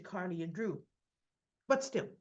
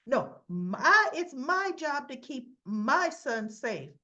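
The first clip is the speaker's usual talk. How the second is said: louder, slower, close to tears; tearful protest; 4 semitones higher, 6 dB louder, slower than usual. Retold or imitated. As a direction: plead for the son on the edge of crying. Sam crying over son.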